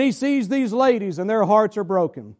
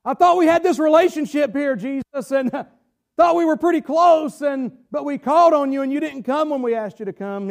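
voicing Mary and Martha; 3 semitones higher, 3 dB louder than usual. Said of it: "That's where Mary and Martha were at".

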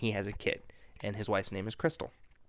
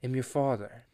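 solemn villain. Retold or imitated. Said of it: "he reveals the truth".

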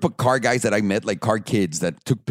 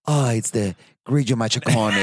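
pretentious mock Italian accent; fake Italian accent. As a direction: show off in bad fake Italian. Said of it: "You don't speak Italian".

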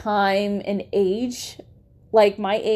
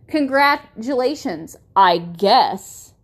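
snide congratulations; 3 dB louder, slower than usual. Retold or imitated. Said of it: "Let me say that again".

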